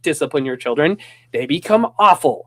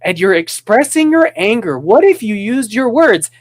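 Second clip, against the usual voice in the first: mock gentle parent; 4 semitones higher than usual. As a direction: parody of the overly patient parent. Mocking soft-spoken hippie parents.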